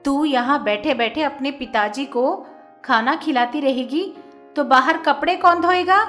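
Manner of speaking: loud, harsh stepmother scolding. A narrator's reading. Stepmother scolding the girl to go wash clothes, loud. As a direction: bark orders at the girl. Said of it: "वो जोर से डांटती है".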